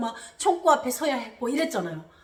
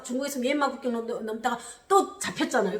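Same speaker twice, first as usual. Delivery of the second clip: ordinary delivery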